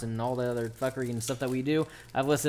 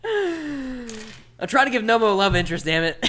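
higher, loud and slow protest; exasperated outburst; 11 semitones higher, 8 dB louder than usual. Real, not acted. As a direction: whine it half laughing. Exasperated laughing complaint.

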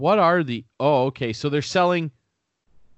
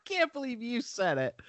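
shocked; 12 semitones higher, 7 dB quieter than usual. Real, not acted. Laughing shock at friend's joke.

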